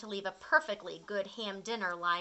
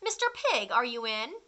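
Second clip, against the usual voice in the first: calling out. Acted. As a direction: call through the door. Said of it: "I called".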